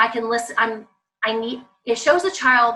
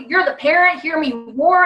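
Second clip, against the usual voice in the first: mock roar; 4 semitones higher, 5 dB louder than usual. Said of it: "Who's gonna yell louder?".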